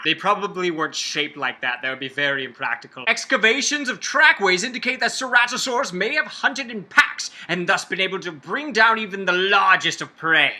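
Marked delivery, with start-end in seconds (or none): 3.1-10.6 lightly dramatic documentary read. Acted. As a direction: read it like a mild nature documentary. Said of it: "I love doing this in this dramatic voice".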